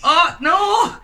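excited Manc lad; broad Manchester, defensive; Mancunian accent. Acted.

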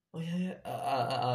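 high, tripping over the first syllables; flustered stammer. Retold or imitated. New waiter to pretty customers, nervous stammer. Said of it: "aku udah langsung belibet gitu, grogi".

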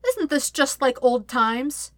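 high, slow singsong taunt; teasing, drawn-out sing-song. A narrator's reading. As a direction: lilt it slowly, mock-sweet. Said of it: "she sang".

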